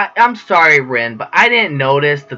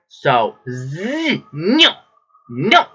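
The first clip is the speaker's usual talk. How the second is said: put-on playful, childish refusal; childish little noes, the first pitched up; 4 dB quieter, much slower than usual. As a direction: refuse like a sulky little kid. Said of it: "Yes, I am very childish".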